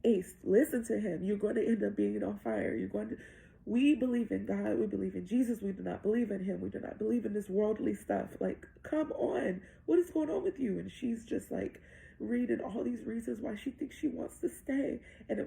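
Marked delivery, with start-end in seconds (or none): 0.1-10.8 urgent, mildly panicked retelling; freaking out. Retold or imitated. Mother begs daughter to listen, mildly freaking out. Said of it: "I'm freaking out".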